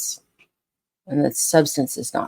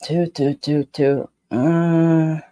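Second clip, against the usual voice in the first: unsure beats trailing into a doubtful uh; a dog that isn't committing; wavering mock alert sound; hesitant dog response; much slower than usual. Shown as a demonstration.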